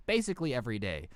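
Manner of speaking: low, quick and resigned; tossed off like it's routine; weary manager. Retold or imitated. Manager answering how often it happens, low and weary. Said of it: "he goes".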